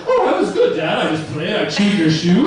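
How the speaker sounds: high goofy dog voice breaking into a laugh; dog's voice. Acted. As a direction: play the dog cheerfully owning up, squeaking high. Dog answering dad in goofy voice.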